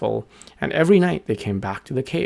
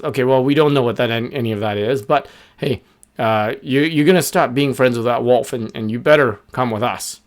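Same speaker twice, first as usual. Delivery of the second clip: louder, pushy bird gang; bossy birds; 4 dB louder than usual. Acted. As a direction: order him around, hurried. Three birds threaten.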